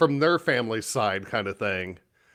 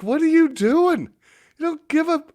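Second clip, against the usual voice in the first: retold scolding; 13 semitones higher, 3 dB louder than usual. Retelling the scolding.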